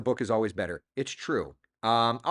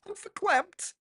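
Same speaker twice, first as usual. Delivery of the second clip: much higher, put-on hostess voice; Coffee Talk voice; slower than usual. Coffee Talk sketch voice, see 149.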